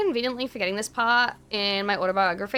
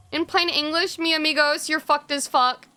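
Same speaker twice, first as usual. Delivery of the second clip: quoting Lewis; 5 semitones higher than usual. Retold or imitated. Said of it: "that's exactly what he said".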